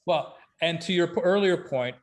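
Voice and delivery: ordinary talk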